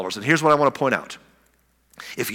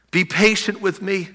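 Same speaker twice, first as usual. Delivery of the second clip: pleading; 5 semitones higher than usual. Acted. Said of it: "he pleaded".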